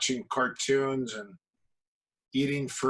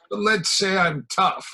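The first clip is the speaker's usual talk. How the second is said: mock tough guy; 6 semitones higher, 5 dB louder than usual. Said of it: "And he goes".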